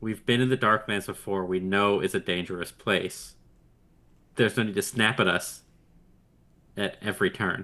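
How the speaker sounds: contained, unraised, low-key reproachful tone. Speaking in character to a guide who keeps snapping at the group: speaking quietly. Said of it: "I will quietly say to her".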